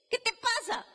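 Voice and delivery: high, pressing divine question; voice of Jesus. Acted.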